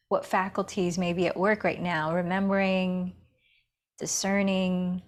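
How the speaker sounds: unhurried meditation guidance with long pauses; guided meditation. Acted. Yoga teacher settling students into breath and awareness, guided meditation. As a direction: guide them inward, leaving space between phrases.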